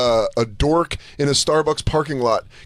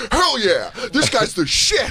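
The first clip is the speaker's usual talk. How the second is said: excited fan; 6 semitones higher, slower than usual. Retold or imitated. Cheering favorite fighter.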